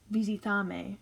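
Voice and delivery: visitame said the Spanish way, vee-see-tah-meh; Spanish pronunciation. Shown as a demonstration. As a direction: model visitame with Spanish vowels. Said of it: "is how you would say it".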